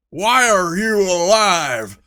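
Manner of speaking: loud gruff dwarf demand. A narrator's reading. Dwarf confronting the girl he thought dead, loud demand. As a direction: bark it at her. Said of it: "demanded Stumpy".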